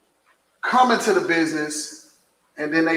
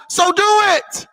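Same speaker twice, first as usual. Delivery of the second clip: shouted command; 13 semitones higher than usual. Real, not acted. Calling out people who know but don't act, shouting. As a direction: yell it as a demand.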